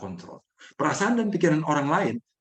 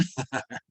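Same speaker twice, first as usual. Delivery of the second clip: laugh; 7 dB quieter than usual. Real, not acted. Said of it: "Coba ketawanya dikeluarin".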